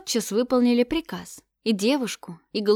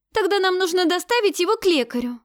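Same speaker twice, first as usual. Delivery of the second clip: urgent; 10 semitones higher, 6 dB louder than usual. A narrator's reading. Girl urgently insists.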